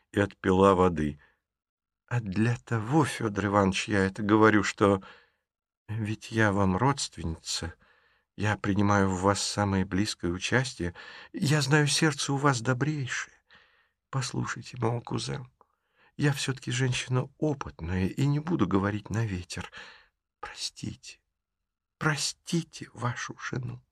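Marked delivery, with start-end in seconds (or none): 2.1-19.7 soft, earnest persuasion, quieter; pleading softly. Acted. 20.4-21.2 breathless whisper begging; whispered plea. Acted. 22.0-23.8 slow, quiet imploring; soft pleading. Acted.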